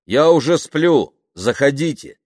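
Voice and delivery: loud, high and slowed call. Acted. Man lets woman know she may come in, loud call. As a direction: call out so she hears from outside. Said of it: "громко сказал он".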